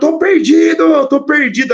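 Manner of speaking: high yelled voice. Retelling climbing out after getting lost in a race, imitating own past yelling. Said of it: "e gritando".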